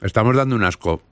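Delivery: mouth full. Real, not acted. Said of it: "Hablando con la boca llena".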